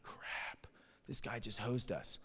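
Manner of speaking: whispered "crap", then very soft; retold deflated aside; hushed dismay. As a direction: say it under your breath. Retold dismay at the dead end.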